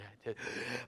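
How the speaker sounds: quick noisy gasp for air; short breathy gasp; demonstrated breath intake. Shown as a demonstration. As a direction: suck air in audibly mid-sentence. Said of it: "have to talk this way as well".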